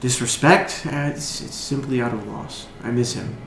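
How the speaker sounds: lightly voiced sorrowful bard, halting; soft, understated grief with long hesitations; grieving bard. Bard explains her sad song, understated sorrow.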